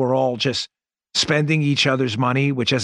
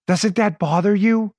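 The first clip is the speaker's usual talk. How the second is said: normal talking voice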